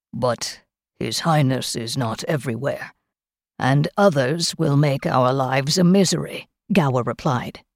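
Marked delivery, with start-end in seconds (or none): 0.1-6.5 low-pitched, lightly voiced servant; a subdued, weary-of-it manservant's reply; resigned manservant. Gower answers Kel's hopes, resigned.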